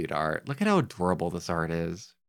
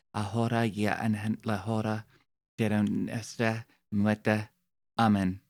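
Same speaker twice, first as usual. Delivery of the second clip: Spanish prayer recital. Shown as a demonstration. Reciting the Hail Mary in Spanish to chat. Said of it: "I can do it in Spanish".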